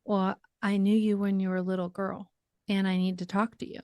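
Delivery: lightly imitated British woman; a hint of a British accent. Woman approaching a grocery checker, lightly imitated British accent. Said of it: "she said in a British voice".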